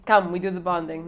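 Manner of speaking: lightly mocked Italian accent; Massimo. Podcaster quoting the movie's Italian suitor, mock Italian accent. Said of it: "So Massimo says".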